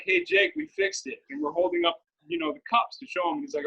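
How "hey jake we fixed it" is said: higher mock call up to Jake; calling upstairs. Friends calling upstairs to Jake, higher mock call. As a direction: call up the stairs to him, pitched high. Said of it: "we're literally just like".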